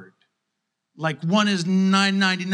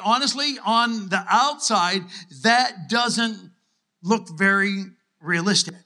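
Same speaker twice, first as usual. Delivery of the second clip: usual speaking voice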